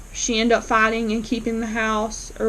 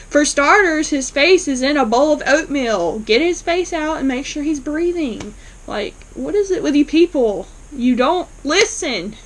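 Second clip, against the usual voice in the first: imitating an exasperated scolding, pitched up; retold exasperation; 3 semitones higher than usual. The speaker reacting to Doug's face in oatmeal, mock exasperated. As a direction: act out being fed up with people.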